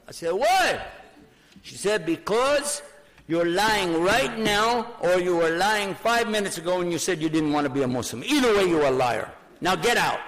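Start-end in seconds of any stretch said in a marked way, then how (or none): 0.3-0.8 high, loud, incredulous "why"; a pitched-up, punchy question; retold incredulous why. Retells own shocked question to father. 2.1-10.2 imitated indignant dressing-down; retold angry scolding. Voices angry mother throwing him out.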